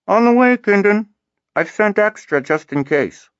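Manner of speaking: high, loud call from far below; distant call. A narrator's reading. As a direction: call up from the bottom of a shaft. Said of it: "Kiari's muffled voice drift back up".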